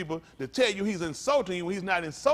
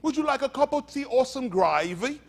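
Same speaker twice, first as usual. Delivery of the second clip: higher-pitched parody of proper diction; put-on prim, high mock voice; mock-proper Bible voice; 5 semitones higher, 3 dB louder than usual. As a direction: mimic an overly polite scripture reader. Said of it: "the N I V version ain't like".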